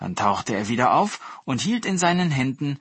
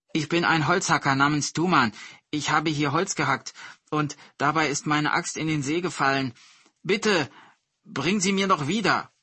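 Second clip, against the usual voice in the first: higher, put-on plaintive woodcutter; whiny plea, rising higher at the end; pleading pretender; 4 semitones higher than usual. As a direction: beg the god with feigned distress. Pretender pleads with the mountain god.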